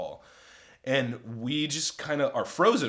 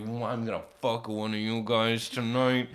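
put-on slurred drunken insistence; lightly voiced drunk; drunk woman. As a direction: imitate a wasted woman slurring her words. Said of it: "she's drunk as a skunk".

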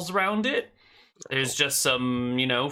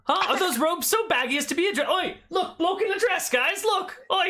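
shrill high mocking jeer; heckling old farmer. Farmer jeers at the robed traveller, very high mocking voice. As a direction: taunt him for the dress. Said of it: "an old hillbilly farmer".

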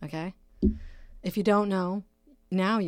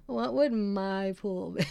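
slow, giggling through the words; real laugh breaking the question; 2 semitones higher, slower than usual. Real, not acted. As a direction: repeat it while cracking up. Cracks up at own joke.

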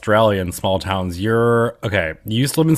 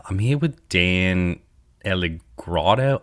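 put-on Australian accent; 3 dB louder than usual. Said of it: "I won't do an Australian accent again".

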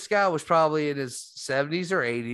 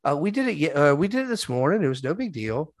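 quoting Addison's wife; 3 semitones higher than usual. Retold or imitated. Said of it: "And she's like".

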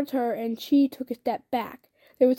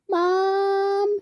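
calling out; 8 semitones higher than usual. Acted. Child calls mother at door.

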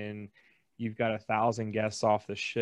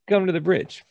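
Italian captain insisting; 9 semitones higher, 10 dB louder than usual. Retold or imitated. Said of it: "eh, they're Italian".

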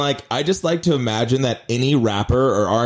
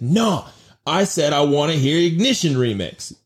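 higher-pitched indignant demand; hammed-up outraged yell; mock yelling; 4 semitones higher than usual. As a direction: imitate a prisoner yelling in someone's face, at normal volume. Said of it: "just, like, yelling in his face".

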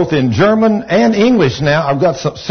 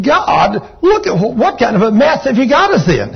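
panicked Moses; 4 semitones higher than usual. Retold or imitated. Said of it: "And Moses saying".

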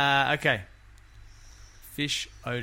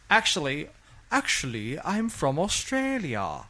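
slow, lightly put-on English accent; mock foreign accent; 4 semitones higher, 4 dB louder than usual. Answering strangers with a sudden accent, mild mock accent. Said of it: "you'd have to answer questions".

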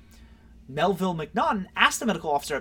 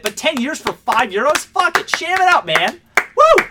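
loud, high rallying yell; egging him on, all fired up; pumped-up shout; hyped cheer; 10 semitones higher, 11 dB louder than usual. Real, not acted.

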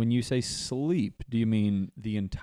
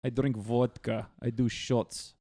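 mock Russian accent. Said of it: "is Soviet Russia".

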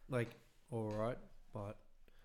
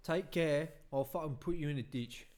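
English accent; 4 dB louder than usual. Shown as a demonstration. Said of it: "could you do English?".

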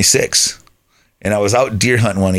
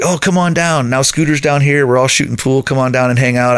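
imitating the buddy; 5 semitones higher than usual. Buddy calls again, pushing harder.

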